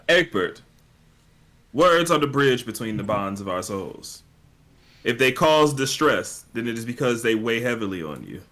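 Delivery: hammed-up, earnest oratory; measured, mock-profound pronouncement; cheesy speech. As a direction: deliver it like a cheesy motivational speech. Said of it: "some sort of really cheesy speech".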